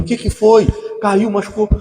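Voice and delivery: parent's voice. Acted. Parent asks crying child.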